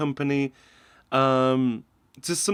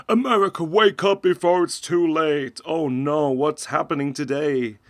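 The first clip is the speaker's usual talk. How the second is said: mock dramatic alarm; 4 dB louder than usual. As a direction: ham up the doom warning. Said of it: "So it's obviously".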